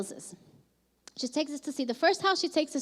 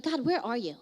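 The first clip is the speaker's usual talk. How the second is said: frustrated plea building louder and faster; retold freak-out, pressing harder as it goes; 2 semitones higher, 4 dB louder than usual. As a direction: demand answers, mildly frantic, reenacting a past outburst. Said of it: "Like, I'm freaking out".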